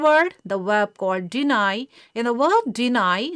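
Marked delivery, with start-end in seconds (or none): 1.3-1.9 "deny" with the stress on its second syllable, "nai". Shown as a demonstration. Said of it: "second syllable called nai takes its own stress". 2.7-3.3 "deny" stressed on the final "nai"; stress on second syllable. Shown as a demonstration. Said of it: "second syllable called nai takes its own stress".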